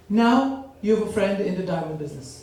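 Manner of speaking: calm ad announcer tagline; commercial voice. Retold or imitated. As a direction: say it like a smooth TV ad. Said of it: "This is for you".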